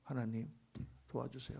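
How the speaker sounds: low, hushed plea to God; tearful prayer, acted. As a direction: imitate a quiet, broken-hearted prayer. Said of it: "그렇게 울고".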